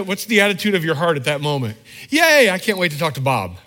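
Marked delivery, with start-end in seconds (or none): 2.1-3.6 sarcastic yay. Retold or imitated. Sarcastic heart attitude.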